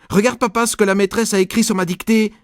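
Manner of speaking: put-on high, loud eager boy calling; excited shout. Nicolas runs to dad with his dictation, high loud call. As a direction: wave the paper at dad. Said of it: "j'ai crié".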